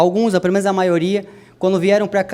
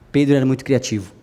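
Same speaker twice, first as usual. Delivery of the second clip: ordinary delivery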